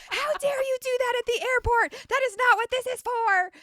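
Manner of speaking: high, indignant imitation of a scolding cop; a playful send-up of the officer's outrage; mock indignant officer. Indignant officer voiced in story.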